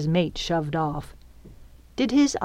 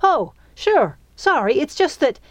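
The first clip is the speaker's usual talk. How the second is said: high-pitched eager apology; excited; 9 semitones higher, 4 dB louder than usual. A narrator's reading. Excited girl apologizing to the fairy, eager. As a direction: apologize in a rush of excitement, then break off. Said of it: "didn't squelch Piper's excitement".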